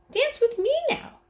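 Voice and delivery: put-on high, eager little boy; bouncing little boy pleading; child voice. A narrator's reading. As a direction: sing it out like an excited kid. Fudge to Grandma.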